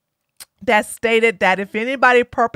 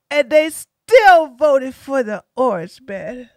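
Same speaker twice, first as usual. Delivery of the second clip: a hint of mock-tearful self-pity; lightly voiced losing candidate, pleading her case; whiny sore loser. Defeated candidate complains about voters and celebrities, mock self-pity. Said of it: "She was like".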